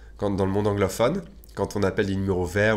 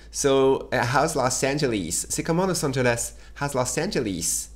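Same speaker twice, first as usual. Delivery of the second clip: imitating a British agent; 6 semitones higher than usual. Teacher mimicking the British phone agent. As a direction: mimic the English agent asking, a touch posh. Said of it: "il dit".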